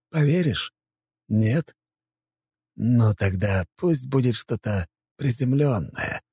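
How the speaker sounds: high, slow teasing villain voice; mocking villain. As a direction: toy with him playfully. Puppeteer mocks emperor.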